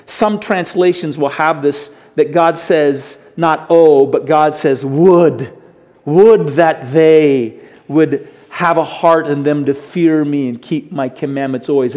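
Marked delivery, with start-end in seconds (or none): 3.7-4.0 loud, emphatic oh; sighed-out desire. Acted. Preacher voicing God's desire to listeners, sighed out with force. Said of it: "God is sighing out a desire here". 4.9-12.0 sighed-out wish. Acted. Preacher quoting God's wish for Israel, slow sighed longing. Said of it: "God is sighing out a desire here".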